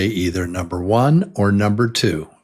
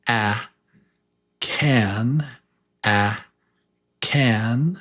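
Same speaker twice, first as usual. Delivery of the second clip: whispered model word; slower than usual. Shown as a demonstration. Teacher models short vowel word.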